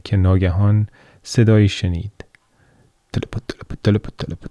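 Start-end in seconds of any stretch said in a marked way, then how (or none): 3.1-3.7 breathy whispered clip-clop far off; whispered hoofbeats. Shown as a demonstration. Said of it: "این صدای پای اسب". 3.8-4.5 clip-clop in a changed, sound-effect voice; voiced hoofbeats. Shown as a demonstration. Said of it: "این صدای پای اسب".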